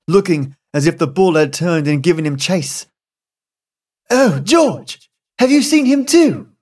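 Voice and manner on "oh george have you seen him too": higher, alarmed question; a mild frightened cry to her husband; frightened wife. A narrator's reading. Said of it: "said his wife".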